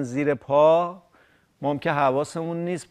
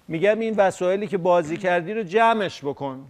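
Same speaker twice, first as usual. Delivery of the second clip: giggling through the words; words broken by laughter; laughing while talking; 3 semitones higher than usual. Real, not acted. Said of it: "نخند".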